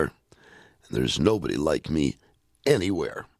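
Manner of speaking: gentle, lilting poem recital; poem reading. Acted. Host reading a children's poem to radio listeners, lilting recital. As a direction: read it like a bedtime rhyme.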